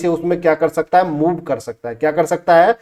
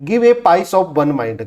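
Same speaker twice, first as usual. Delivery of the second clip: slow headword; much slower than usual. Shown as a demonstration. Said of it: "माइनर इरिटेशन".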